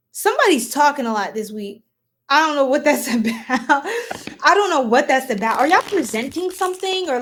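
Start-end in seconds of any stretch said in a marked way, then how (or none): 2.3-3.8 chuckling mid-sentence; laughing through it. Real, not acted. Tarot reader laughing at her own question. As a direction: let a laugh break the line.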